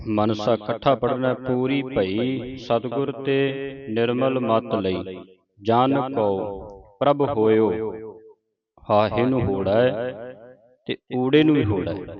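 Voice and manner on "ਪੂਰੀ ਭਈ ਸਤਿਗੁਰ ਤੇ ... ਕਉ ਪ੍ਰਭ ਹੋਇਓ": slow, drawn-out reading of verse; scripture recitation. Acted. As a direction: recite it slowly, word by word. (ਧੀਮਾ Gurbani ਪਾਠ)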